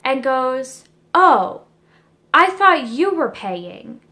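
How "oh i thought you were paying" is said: mock-serious boyfriend voice, slow; a lightly voiced clueless boyfriend, flat and slow; dead serious. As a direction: imitate him deadpan, slowly. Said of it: "dead serious".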